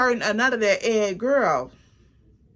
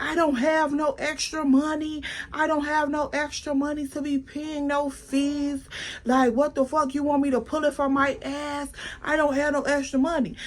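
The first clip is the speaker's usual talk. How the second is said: higher, put-on voice for the stubborn friend; imitating Extra; 4 semitones higher, 3 dB quieter than usual. Friend Extra refusing to pay the fee, mimicked in a higher voice. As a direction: play the friend who won't pay, pitched up.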